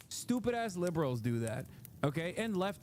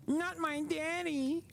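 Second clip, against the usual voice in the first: put-on high, slow, laughing baby talk; laughing mock baby voice; 10 semitones higher, slower than usual. Streamer mocking Don Junior's whine, slow, high and laughing. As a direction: giggle it like a pouting toddler.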